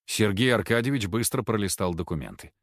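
usual speaking voice

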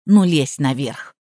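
low, slow curt command; housekeeper's lightly voiced order; mild order. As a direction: point her up the stairs. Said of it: "ткнула пальцем в лестницу".

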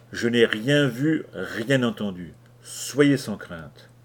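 slow, calm reassurance; very calmly. Acted. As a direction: soothe the scared sailors slowly. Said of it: "dis très calmement". (très calmement, lent et rassurant)

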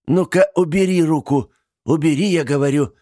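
high, loud command; angry order. A narrator's reading. Aunt ordering niece to pull back, angry. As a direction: snap the order out.

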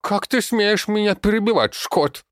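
very high loud goblin talking through carrot; indignant screech with a full mouth. A narrator's reading. Goblin chews carrot and snaps at the old man. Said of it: "с набитым ртом произнёс Зелёный".

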